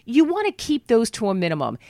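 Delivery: ordinary talk, nothing marked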